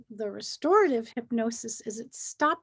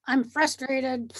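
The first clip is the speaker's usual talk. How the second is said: slow, half-crying half-laughing I'm frustrated; mock sob, laughing. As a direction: whimper it through a laugh, hammed up. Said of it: "So you say".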